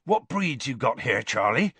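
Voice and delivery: a touch of awe, rising on Charlie; reverent. Acted. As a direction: ask in hushed wonder at the dragons. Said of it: "with something close to reverence".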